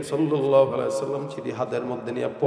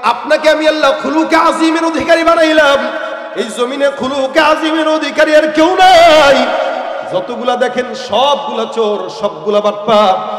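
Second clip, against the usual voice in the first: loud, rousing sermon delivery; full-force preaching; 11 semitones higher, 10 dB louder than usual. Real, not acted. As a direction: preach it out, stretching the line endings. (জোরালো ওয়াজের সুরে)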